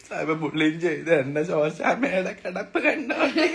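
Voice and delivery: slow, hammed-up wail, laughing through it; overacted sob story, barely holding back laughter; mock crying lament. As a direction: fake a tearful lament for the camera. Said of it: "അഭിനയിക്കാം, അഭിനയിക്കാം".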